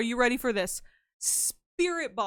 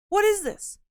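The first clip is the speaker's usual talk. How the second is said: squeaky voice; 9 semitones higher, 5 dB louder than usual. Pretend. Character voice reacts.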